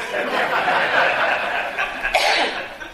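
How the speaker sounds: high airless burst of laughter. Real, not acted. Pastor laughing at his friend's cow story, real laughter. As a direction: let a real laugh break out.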